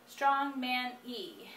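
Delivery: P=A; hesitant recall. Shown as a demonstration. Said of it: "now I can't think of it".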